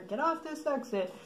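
a hint of loudspeaker announcement; imitated loudspeaker order. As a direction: lightly imitate police on a loudspeaker. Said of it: "they said on their loudspeaker".

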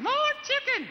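high squeaky puppet voice; squeaky ventriloquist dummy. Acted. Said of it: "I'm giving him the high voice".

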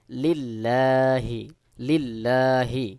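লিল্লাহি very slow, double l kept light, aa held long; thin lam. Shown as a demonstration. Teacher demonstrates correct pronunciation, slow thin-l লিল্লাহি. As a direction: recite লিল্লাহি drawn out with a thin, unthickened l. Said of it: "বারিক বা পাতলা করে পড়ব".

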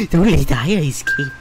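loud, menacing villain voice; hammed-up mad villain ordering guards. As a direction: bark the order like a madman. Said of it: "That's my mad voice".

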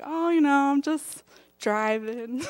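high start, then slow, drawn-out evasion; mock-casual, stretching the last words; playing innocent. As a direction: act casual when you've been caught out. Caught by boss, playing innocent.

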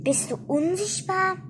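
high, rising disbelief; astonished question. A narrator's reading. Toni cannot see Ette, astonished question.

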